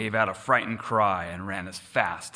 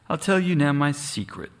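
higher and louder, a sly winking jest; sly cruel fox; 7 semitones higher, 3 dB louder than usual. A narrator's reading. Fox taunting the lost sheep, sly and cruel. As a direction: lean in like a cruel fox sharing a secret. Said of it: "the fox winked in cruel jest".

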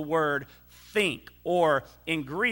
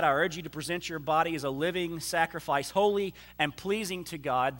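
quick, softer reading of the verses; scripture reading; 3 dB quieter than usual. Acted. Pastor reading Romans aloud to the church, quick and soft. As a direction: read the passage straight through to the congregation.

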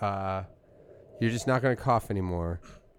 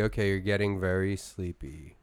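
hypnotist voice; 3 semitones lower than usual. Pretend. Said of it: "watch me".

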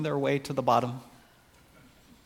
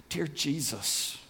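softer, slow address to Jesus; hushed prayer; 5 dB quieter, slower than usual. Acted. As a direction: drop into a reverent near-whisper. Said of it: "and whispered".

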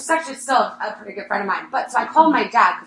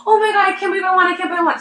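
higher, quick rush of excited disbelief; retold disbelieving joy; 8 semitones higher, 4 dB louder, faster than usual. Running the hallway after the winning ticket, fast excited gushing. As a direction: gush it out, can't believe your luck. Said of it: "I was so excited".

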